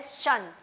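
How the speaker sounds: "शन" said as "shun"; sh sound. Shown as a demonstration. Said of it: "a sound which we call as".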